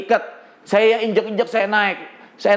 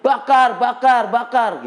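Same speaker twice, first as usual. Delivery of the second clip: higher, drawn-out mock crowd chant; retold mob shout; 3 semitones higher, slower than usual. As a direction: mimic a mob's cry, stretched and pitched up. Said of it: "Ada yang teriak". (tiruan teriakan massa)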